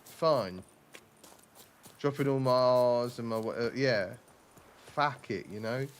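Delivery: a mild, casual southeast English accent, dropping his R's. Shown as a demonstration. Streamer showing his home accent, mild southeast English. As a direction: shrug it off like a south-east lad. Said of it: "I should be a lot more like".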